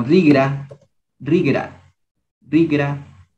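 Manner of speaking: rigra with a G in the middle; G sound. Shown as a demonstration. Teacher showing students the word rigra, with a G sound. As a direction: say "rigra", voicing the G. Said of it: "este se le hace como un, una G".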